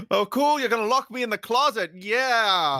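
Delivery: put-on very high eager child voice; childlike excitement. Pinocchio about to be locked in the closet, high cheerful voice. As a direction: chirp it like a delighted kid.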